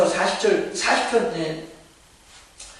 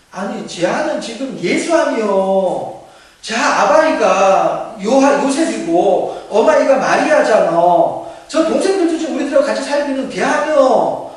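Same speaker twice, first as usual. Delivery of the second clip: gossiping villagers; 2 semitones higher, 5 dB louder than usual. Acted. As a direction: scoff like locals who knew him as a kid. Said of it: "사람들이 뭐라고 합니까". (사투리로 말끝을 늘이며 수군대는 동네 사람들처럼)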